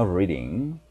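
"Reading" with the tongue not touching the palate; English R pronunciation. Shown as a demonstration. Teacher demonstrates for learners, clear English R in "Reading". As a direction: model a careful English R in "Reading". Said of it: "혀가 천장에 안 닿고 움직이는 거예요".

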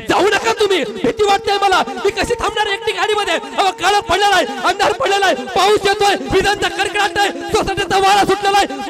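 high, loud frightened begging; terrified pleading. Acted. Wife begs her husband in terror not to leave the car. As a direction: beg him not to leave you alone.

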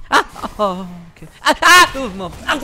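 mouth full of hot food. Real, not acted. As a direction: yelp through hot food. In pain, calling out.

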